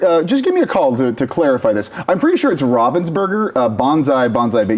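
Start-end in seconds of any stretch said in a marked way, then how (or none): 2.6-3.5 Ravensburger with RAH as first vowel; proposed pronunciation. Shown as a demonstration. Host checks the company's name, Ravensburger said RAH-vens-burger. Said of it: "Is Ravensburger the correct pronunciation".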